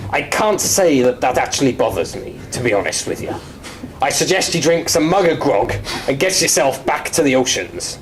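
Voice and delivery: lightly voiced unhelpful pirate; play-acted pirate on a support call; pirate role-play. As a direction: brush the caller off as a pirate. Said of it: "to do pirate lingo".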